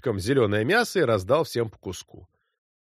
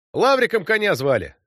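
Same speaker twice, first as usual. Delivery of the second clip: loud, higher announcement; said loudly; 7 semitones higher, 3 dB louder than usual. A narrator's reading. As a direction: call it out to whoever's on the cart. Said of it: "сказал я громко". (громко, на всю округу)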